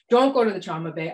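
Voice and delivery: firm word to herself; self-admonishing. Retold or imitated. Doctor talking herself out of trauma bay, self-admonishing. Acted inner argument with herself.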